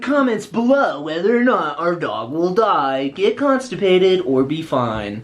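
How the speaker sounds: high, loud mock call for comments; put-on host voice. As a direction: play the over-the-top video host, drawing out the ending. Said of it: "you like that voice, huh?".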